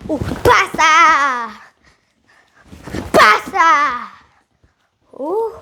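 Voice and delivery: key up without screaming; controlled kick shout. Shown as a demonstration. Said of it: "You just wanna go like".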